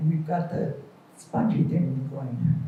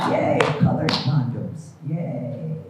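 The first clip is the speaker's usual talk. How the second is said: lower, slow deadpan yay; sarcastic yay; 6 semitones lower, slower than usual. Acted. Mocking colored condoms, slow sarcastic cheer. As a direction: fake enthusiasm, flat.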